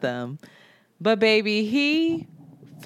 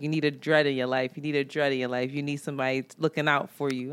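low mock male voice; 5 semitones lower, 5 dB quieter, faster than usual. Quoting the mechanic's pickup line.

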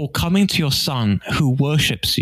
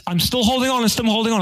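fibbing dad; 9 semitones higher, faster than usual. Retold or imitated. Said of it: "He said".

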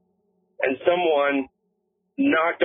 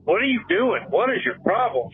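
higher imitation of her pleading with him; pleading girlfriend, higher; 7 semitones higher than usual. Retelling girlfriend begging him to answer, higher and scared. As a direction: echo her frightened pleading, pitched up. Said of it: "she's following me".

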